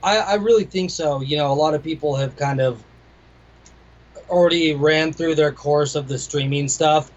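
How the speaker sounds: talking around hard candy; candy in the mouth; mouth full. Real, not acted. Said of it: "I got a Jolly Rancher in my mouth".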